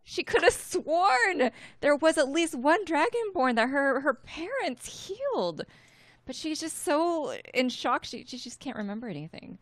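Winley's panic, high and loud, fading at the end; shocked distress. Acted. Player voices her healer's shock at forgetting everything, high-pitched distress.

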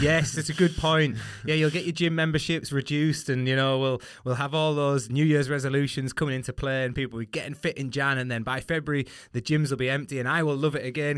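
amused. Real, not acted. Amused riff on New Year gyms.

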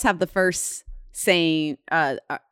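"first same" jumbled, words in the wrong order; slip of the tongue. Real, not acted. Telling the co-host about the name twins, tripping over words. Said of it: "the three of us have the same first and last name".

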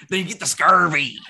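high, loud mock-alarmed silly voice; joking silly voice. Joking after meat with meat.

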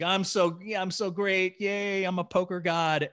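imitating a friend over the moon; mock elation. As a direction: gloat like an oblivious winner. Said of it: "he's on top of the moon 'cause he won".

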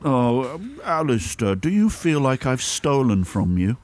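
high, needling lovey actor; camp passive-aggressive voice. Acted. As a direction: wind him up like a petty master. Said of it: "play the master role when I'm winding you up".

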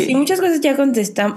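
talking through a yawn; words stretched by a yawn. Real, not acted. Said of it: "perdón por bostezar".

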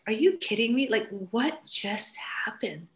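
a hushed, slowed disbelieving whisper; whispering in amazed disbelief; stunned whisper. Retold or imitated. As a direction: breathe it out in astonished awe. Mother stunned after baby calms.

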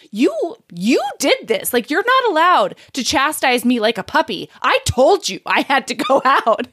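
lightly acted indignant scolding; playful retold huff; mock indignation. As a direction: tell someone off in mock outrage, leaning on the first words. Acted indignant scolding of her partner.

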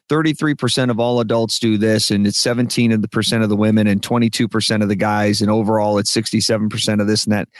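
run-on list of numbers; rattling off. Shown as a demonstration. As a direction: reel off statistics without stopping. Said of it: "when you start rattling off".

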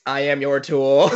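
slow flat robotic monotone. Retold or imitated. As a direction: deliver it like a servile robot. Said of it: "in a robot voice".

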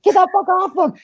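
high, loud imitated yell; retold yell. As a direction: mimic her screaming at him to let go. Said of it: "She's like".

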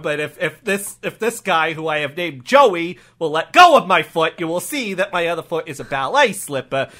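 put-on accented officer explaining himself haltingly; earnest improv cop excuse; defensive cop. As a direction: justify it as a flustered local cop. Cop explains his footwear.

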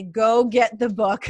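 slow, loud insistence; slow and punchy; emphatic urging. Retold or imitated. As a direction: press each word like an urgent recommendation. Acted advice to new owners.

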